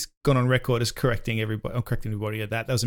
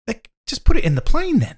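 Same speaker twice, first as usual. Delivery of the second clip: sarcastic; 11 semitones higher, 7 dB louder than usual. Real, not acted. Mocking the motorhome logic.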